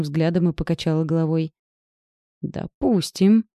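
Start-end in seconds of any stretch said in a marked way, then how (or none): 2.4-3.4 slow, drawn, unsure; doubtful. Acted. Friend doubtfully agrees, slow and unconvinced. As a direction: let the doubt hang. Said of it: "не особо уверенно".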